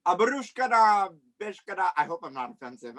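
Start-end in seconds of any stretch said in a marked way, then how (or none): 0.0-1.9 mock Russian accent. Guest gives clues in accent guessing game, mock Russian accent. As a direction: put on a Russian accent with invented words.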